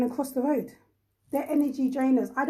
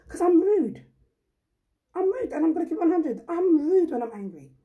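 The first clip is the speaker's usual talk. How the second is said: emphatic; 5 semitones higher, 4 dB louder than usual. Real, not acted.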